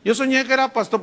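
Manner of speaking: lightly mocking someone who dreamed he was a pastor; mocking dreamer. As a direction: ham up a daydreamer's boast. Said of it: "No dicen".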